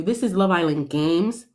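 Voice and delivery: weight landing on "Games"; stress on Games. Real, not acted. Fan reminding Andreina what show this is, stress on "Games". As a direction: lean on the final word "Games". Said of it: "Emphasis on the games".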